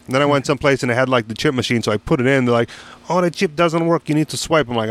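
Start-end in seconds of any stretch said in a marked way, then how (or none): 3.1-4.7 high cashier imitation; mock cashier. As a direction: voice the clerk flipping the rule. Cashier voiced in story.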